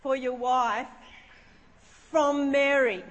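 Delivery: grave, measured announcement with pauses; really serious. Retold or imitated. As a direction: deliver it solemnly, building to the name. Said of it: "I got really serious then".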